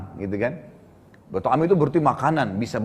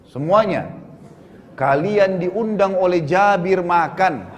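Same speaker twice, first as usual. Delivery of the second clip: drawn-out call to a crowd, moderately raised; imitated proclamation; much slower than usual. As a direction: call out slowly, stretching the names. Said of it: "beliau teriak mengatakan". (menirukan seruan lantang yang dipanjangkan)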